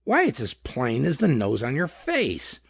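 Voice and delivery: stumbling over the words in frustration; a flustered protest that trips on its start; sputtering. A narrator's reading. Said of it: "Ward sputtered".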